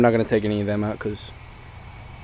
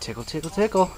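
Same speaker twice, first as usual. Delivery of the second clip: higher parrot imitation; 8 semitones higher than usual. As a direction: mimic the bird saying tickle. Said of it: "That's what Teddy says".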